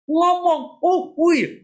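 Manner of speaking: ordinary delivery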